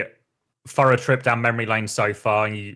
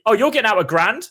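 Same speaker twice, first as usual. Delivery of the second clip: mock surprise; 10 semitones higher, 3 dB louder than usual. Teammates pushing bigger casino withdrawals.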